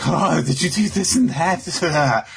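high, slow prying fairy voice; pry like a nosy little fairy. Retold or imitated. Podcaster voicing Sylph prying about Asta, high and slow. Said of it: "she's like".

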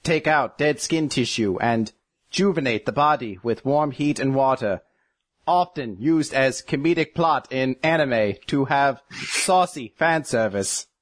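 flat encyclopedia readout, slowing; robot voice. Retold or imitated. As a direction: recite like a dull computer. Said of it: "Robo Yuno".

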